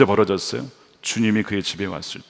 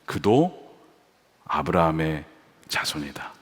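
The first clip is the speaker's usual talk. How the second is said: gentle Jesus; 8 semitones lower, 6 dB quieter, slower than usual. Acted. Jesus's reply.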